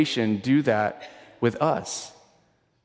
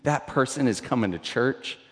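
judgmental churchgoer. Retold or imitated. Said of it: "It's so easy to be like".

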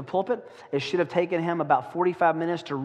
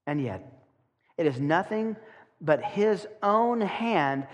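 sermon reading. Shown as a demonstration. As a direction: lean into the dread of each image. Let me read it for you.

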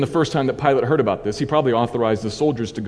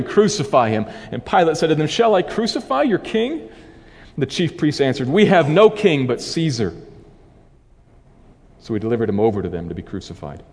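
measured, earnest Bible reading; scripture reading. Acted. Preacher reading John to the congregation, measured and earnest. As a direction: read the passage to the congregation with weight. Reads the Passion aloud.

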